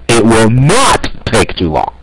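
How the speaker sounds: "not" hit hard in "it will not take too long"; emphatic NOT; stress on not. Shown as a demonstration. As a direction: lean on NOT, then finish calmly. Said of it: "Emphasis on".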